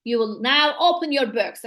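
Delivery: "You will now open your books" as a firm pointed remark; teacher's firm comment in statement form. Shown as a demonstration. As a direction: deliver it as a command, leaning on "open". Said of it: "you can say".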